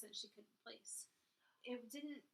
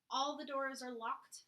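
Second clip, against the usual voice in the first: flat accusing; 3 semitones higher, 8 dB louder, slower than usual. A narrator's reading. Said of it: "she said flatly and accusingly".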